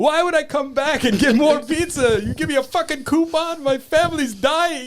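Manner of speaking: put-on very high, shrill yelling in an Arabic accent. Retelling a caller's reply to the pizza place's coupon offer, in an Arabic accent. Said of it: "he's doing it in like an Arabic accent".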